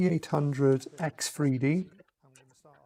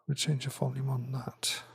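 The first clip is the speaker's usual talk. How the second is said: soft, half-whispered muttering; whispering to self; 9 dB quieter than usual. Real, not acted. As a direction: murmur it under your breath, to yourself. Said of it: "I'm just whispering to myself".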